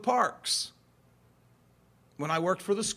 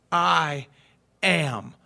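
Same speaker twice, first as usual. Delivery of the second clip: plain divine answer; 4 dB louder than usual. Acted. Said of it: "very plainly he said".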